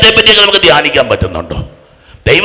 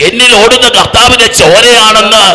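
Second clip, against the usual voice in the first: full-force preaching; 4 semitones higher than usual. Real, not acted. Preacher rousing a congregation to shout hallelujah, full-force preaching. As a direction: proclaim it to a crowd, driving each phrase.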